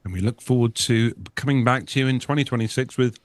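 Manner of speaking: eating while talking; talking through a mouthful; mouth full. Real, not acted. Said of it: "Are you eating your dinner".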